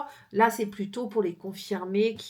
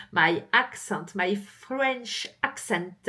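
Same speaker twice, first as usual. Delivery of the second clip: English with a real French accent; slow, French-accented English; bad French accent; slower than usual. Real, not acted. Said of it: "qui est pas bon du tout".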